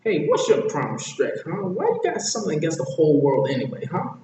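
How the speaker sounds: high, quick nagging questions; pestering high-pitched sidekick; Donkey. Acted. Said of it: "Donkey asks the wisest question".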